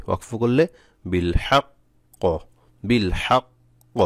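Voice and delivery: বিল হাক্ক with the ক held a beat late, slow; slow, held doubled ক in বিল হাক্ক; pausal form demo. Shown as a demonstration. Teacher drawing out বিল হাক্ক for students. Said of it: "এভাবে।".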